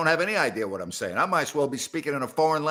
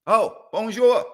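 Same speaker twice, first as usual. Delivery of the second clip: high, slow, louder call to the cat; sing-song bonjour; 7 semitones higher, 5 dB louder, slower than usual. Pretend. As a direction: draw out bonjour to coax the cat. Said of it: "how many languages we got".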